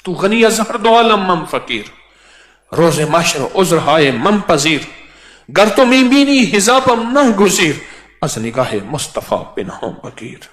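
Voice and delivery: poem declaimed in a lifted, melodic voice; recited Persian verse. Acted. Preacher reciting a Persian quatrain to the congregation. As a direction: declaim the rubai with feeling.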